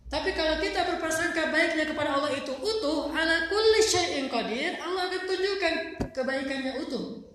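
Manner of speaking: loud, high fervent preaching; preaching at full force. Acted. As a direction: rise and proclaim it. Preacher drives home the point.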